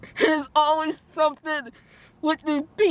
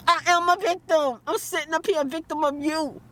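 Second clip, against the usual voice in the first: indignant retort; 5 semitones higher than usual. Real, not acted.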